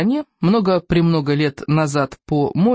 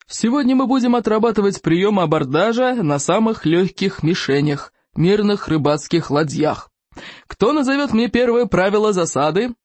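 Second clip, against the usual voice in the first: bellowing; 4 semitones higher than usual. A narrator's reading. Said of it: "Его оглушительный рёв".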